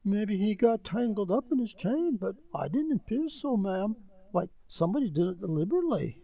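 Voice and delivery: high, breathless servant voice; frightened butler breaking the news; alarmed servant. Acted. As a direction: blurt out the bad news. Servant guesses at cause.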